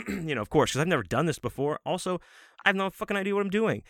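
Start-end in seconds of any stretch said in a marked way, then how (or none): 1.8-3.8 high, rushed exasperation; frustrated. Retold or imitated. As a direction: blurt it out in a high voice. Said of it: "And I'm getting frustrated".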